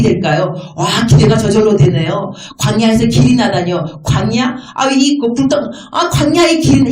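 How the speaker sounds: eager, wondering prayer to the Lord; acted fervent prayer. Believer praying over promised river in desert, fervent wonder. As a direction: marvel aloud as you pray. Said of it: "이렇게 하면서 부르짖어야죠".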